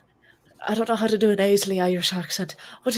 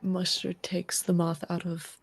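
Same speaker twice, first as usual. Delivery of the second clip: whisper; 8 dB quieter, slower than usual. Acted. Player whispering in-character plan.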